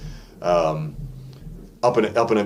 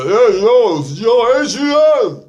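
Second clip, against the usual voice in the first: much higher, louder throaty tough-guy call; Rocky tough guy; 13 semitones higher, 7 dB louder, slower than usual. Shown as a demonstration. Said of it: "that kind of stuff".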